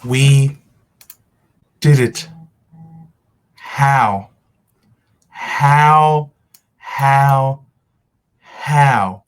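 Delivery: loud, elated shouts of victory; euphoric yelling. Real, not acted. Fan screaming over a big win, ecstatic. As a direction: yell it out like your team just won.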